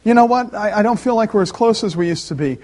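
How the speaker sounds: lightly acted spouse raising a complaint; a hint of an unhappy spouse; voicing a concerned spouse. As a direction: open up to your partner, slightly lifted. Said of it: "if your spouse said this to you".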